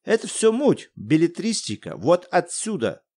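put-on eager boy pointing at the paper. Коля говорит с академиком. (мальчик Коля, голос выше)

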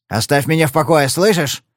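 lightly voiced threatening bark; menacing bark. Padler menacingly barks at Marti to leave him be. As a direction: growl a warning, mildly. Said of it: "угрожающе рявкнул Падлер".

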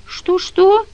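"Что, что?" jumps high in disbelief; surprised question. A narrator's reading. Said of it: "удивлённо переспросил Данила". (удивлённый переспрос, выше)

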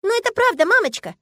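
put-on a child wounded at being scolded; offended little girl. Daughter protesting to her mother, offended child voice. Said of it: "возразила с обидой в голосе".

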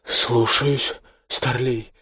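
unwilling, drawn-out acknowledgement; obey the order reluctantly; reluctant drawl. A narrator's reading. Junior officer yields to a senior, reluctant. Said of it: "нехотя протянул тот".

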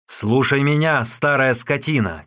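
put-on a hard, angry shout at the old woman. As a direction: bark it at her in fury. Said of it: "крикнул Усун".

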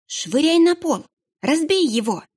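high yelled plea to smash it; вопль. Acted. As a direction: shout it high and desperate. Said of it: "завопила Вертрана". (отчаянный крик)

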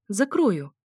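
a pointed lift on «закрою»; «закрою» set apart meaningfully; special intonation. A narrator's reading. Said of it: "произнесла с особой интонацией".

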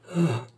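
faint distressed sigh; murmured "ah". A narrator's reading. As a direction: let out a small frightened "ah". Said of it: "murmura Cerise".

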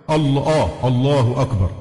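heavy, dark opening vowel on الله; تفخيم الهمزة خطأً. Shown as a demonstration. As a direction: say الله أكبر with a thickened hamza. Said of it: "معروف أنه لا حظ للهمزة في التفخيم". (تفخيم همزة «الله»)

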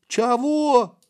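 high bewildered what; puzzled what. A narrator's reading. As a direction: ask like you never heard the word. Boy doesn't understand term.

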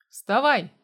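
sharp loud bark; barked order. A narrator's reading. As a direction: bark him awake. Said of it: "рявкнул я". (резкий громкий окрик)

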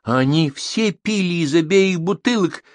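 high-pitched, mildly agitated protest; nervous. A narrator's reading. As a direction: protest nervously, drawing it out slowly. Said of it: "разнервничался официант". (нервно, взволнованно)

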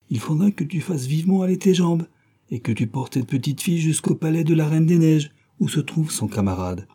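put-on robber girl voice. Robber girl frees reindeer.

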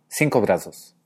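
BRAZOS with a buzzing z in the middle; voiced S. Shown as a demonstration. Teacher repeats Horacio's brazos with a voiced S. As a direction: lean on cinco, soften the S of brazos into z. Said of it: "S en brazos se sonoriza".

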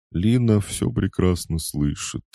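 mid-yawn and drowsy; sleepy, yawning. A narrator's reading. Lina answering Tolik, sleepy and yawning. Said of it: "сонно зевнув".

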